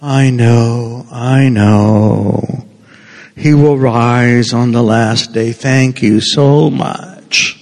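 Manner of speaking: slow, polite brush-off thanks; tired I know, thank you so much; polite weary reply. Retold or imitated. Martha answering a stock comfort, politely weary. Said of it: "That's the way Martha's responding".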